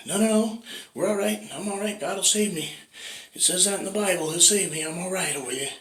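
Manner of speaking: very high, breezy refusal; stubborn believer. Acted. Homeowner on the roof refusing the helicopter, very high and breezy. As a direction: calmly insist God will save him.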